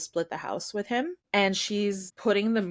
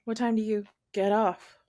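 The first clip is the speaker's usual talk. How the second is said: flirty question. Shown as a demonstration. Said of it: "you heard it go".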